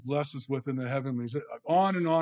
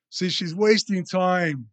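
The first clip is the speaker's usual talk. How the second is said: higher, louder, slow imitation of a disapproving Martha; mock scornful complaint; 4 semitones higher, 5 dB louder, slower than usual. Preacher voicing Martha judging Mary for wasting time, scornful. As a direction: drag it out with scorn. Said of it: "Martha would say".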